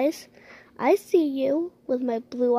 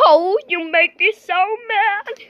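higher, louder hammed-up fury; mock anger; 4 semitones higher, 5 dB louder than usual. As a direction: stomp in pretend rage. The owner finds her chips stolen.

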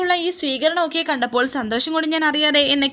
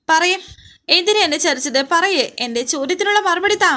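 raised, pleading angry demand, voice climbing; angry and sad; 3 semitones higher than usual. Retold or imitated. Widow demanding answers from her dead husband's photo, angry and tearful. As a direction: hurl the questions at him in grief and anger. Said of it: "ദേഷ്യത്തോടെയും സങ്കടത്തോടെയും".

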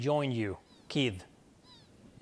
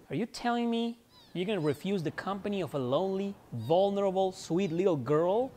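higher, mock-pleading British girl accent; hammed-up British girl fishing for pity; 5 semitones higher than usual. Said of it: "My so-called ridiculous British accent".

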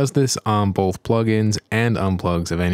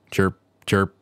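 chirping cricket voice. Pretend. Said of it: "I'm too cheap to pay for cricket sound effects".

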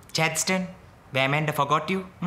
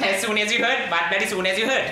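mocking echo. Mocking brother's words back.

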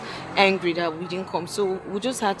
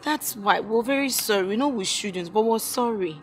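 higher-pitched, pleading apology; sorry and placating, pitched up; apologetic pleading; 4 semitones higher than usual. Acted. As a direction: plead for forgiveness in a raised pitch. Apologising to an angry friend.

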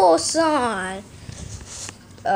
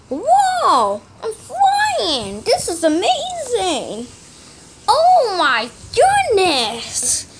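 excited; 3 semitones higher, slower than usual. Real, not acted. Flying in the game.

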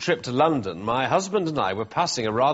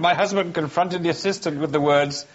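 laughing. Real, not acted. Third try, still laughing.

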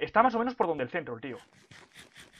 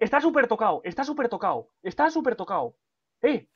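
excited; 5 semitones higher, 4 dB louder than usual. Real, not acted. Urging teammate to attack.

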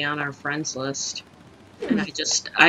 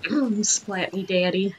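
mock flirty; 3 semitones higher, slower than usual. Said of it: "be like".

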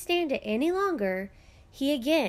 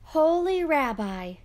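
high, louder grateful call; joyful cry; 6 semitones higher, 5 dB louder than usual. A narrator's reading. Poor man returning to thank the rabbi, joyful. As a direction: burst in overflowing with thanks. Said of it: "he cried".

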